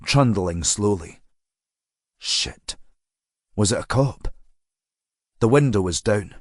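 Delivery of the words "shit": breathless whispered shit; whispered curse. A narrator's reading. Girl alone on the road whispers in alarm. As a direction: hiss it under your breath in alarm. Swearing under her breath.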